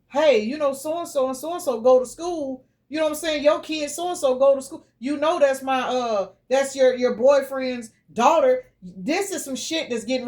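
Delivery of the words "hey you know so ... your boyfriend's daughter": lightly voiced custodial parent, friendly and higher; polite heads-up. Custodial parent calmly telling new partner about kids, light mimic. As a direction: sound casual but pointed. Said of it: "but letting you know".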